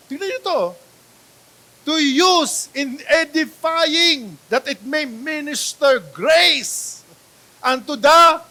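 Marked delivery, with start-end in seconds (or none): 1.8-8.4 higher and very slow; slow emphatic reading. Acted. Reading Ephesians to the congregation, slow and emphatic. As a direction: spell out each word of the verse. Preacher reading verse slowly.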